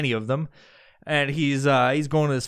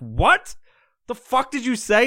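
higher, affronted mock disbelief; incredulous retort; 11 semitones higher, 4 dB louder than usual. Partygoer answers Jeffrey's accusation of racism, incredulous. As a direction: demand an explanation, pitch jumping up.

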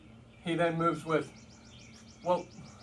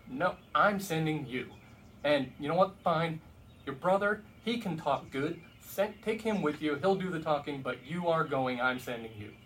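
angry God. Retold or imitated. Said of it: "it literally says God gets angry at him".

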